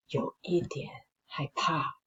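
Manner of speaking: scared whisper. A narrator's reading. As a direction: breathe it out, frightened. Narrating fear in whisper.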